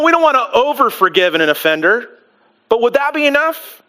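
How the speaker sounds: mock self-satisfied bargaining, lightly voiced; half-hearted impression of a pleased haggler; smug bargaining attitude. Peter to Jesus, lightly mock proud of his generous offer. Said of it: "kinda like this attitude going".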